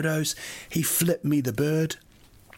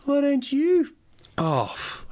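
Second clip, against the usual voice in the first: much higher and louder, worked-up retort; a worked-up retort to the rude cab driver; passionate outburst; 12 semitones higher, 3 dB louder, much slower than usual. Retold or imitated. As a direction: fire it back at him, all fired up. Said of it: "I'm just full of passion now".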